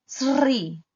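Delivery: SRI with a long forced S-R; forced SR cluster. Shown as a demonstration. Teacher trying her difficult sound, forced SRI. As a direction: push through the S-R of Sri. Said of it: "kalau dipaksain seperti itu bunyinya".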